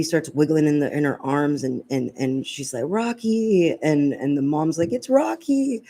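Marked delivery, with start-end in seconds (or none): 2.9-3.8 high, drawn-out delighted call, retold; excited child's cry. Baby in mom's arms spots the lost dog, imitated excitement. 4.9-5.8 imitated high-pitched joyful cry; excited recognition. Mom recognises the lost family dog, imitated high excitement.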